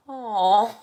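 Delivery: mock-disappointed drawn-out "aw". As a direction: imitate a let-down husband's loud "aw". Husband hears she works late.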